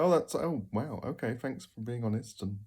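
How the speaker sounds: mock surprised reply. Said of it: "you go".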